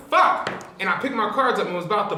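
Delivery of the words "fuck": sharp loud high curse; gutted poker player seeing the flush; retold curse. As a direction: spit it out, sudden and pitched up. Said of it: "And I'm like".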